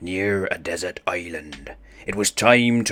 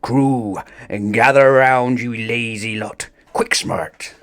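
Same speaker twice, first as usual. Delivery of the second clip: higher, louder summoning shout; calling the crew; 3 semitones higher, 6 dB louder than usual. Acted. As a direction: bark the crew into line. Captain calls crew.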